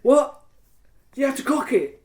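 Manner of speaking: high, laughing mock disbelief; mock surprise. Player mimics Panda's shock about cocking the gun, mock surprise. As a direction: gasp out a fake-innocent what. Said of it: "And I'm like".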